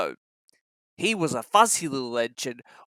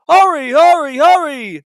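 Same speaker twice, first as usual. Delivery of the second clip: laughing; 10 semitones higher, 11 dB louder than usual. A narrator's reading. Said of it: "laughed Gordon in front".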